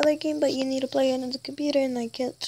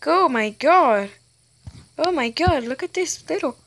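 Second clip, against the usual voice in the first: loud, thrilled oh my god; excited exclamation; 2 semitones higher, 6 dB louder than usual. Real, not acted. Kid gamer thrilled at something on screen, excited.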